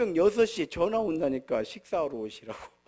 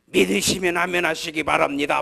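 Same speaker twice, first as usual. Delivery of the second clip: revival preacher imitation; 4 semitones lower, 3 dB louder than usual. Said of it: "막 이래야 되는데 나는 그건 절대 못 하겠어요".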